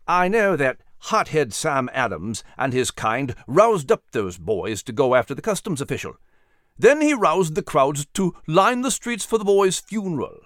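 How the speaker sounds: British captain with contained anger; angry. Acted. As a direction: accuse with a touch of anger. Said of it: "he surmised angrily".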